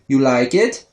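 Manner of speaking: lightly voiced toddler question; a hint of a creepy little kid; toddler catchphrase. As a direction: ask with a rising lilt. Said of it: "the weirdest of her catchphrases is asking".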